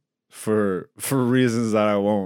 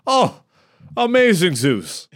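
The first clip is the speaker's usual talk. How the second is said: smug self-praise. Pretend. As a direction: gush over yourself like a narcissist. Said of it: "I'm not a narcissist like that".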